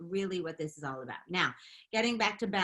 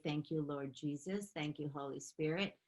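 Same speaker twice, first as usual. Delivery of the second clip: grateful prayer; 2 semitones lower, 6 dB quieter than usual. Shown as a demonstration. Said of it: "I will say".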